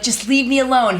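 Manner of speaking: high, irritated brush-off; fed-up and pitched high; exasperated protest. Retold or imitated. Pestered wife snaps at nudging husband.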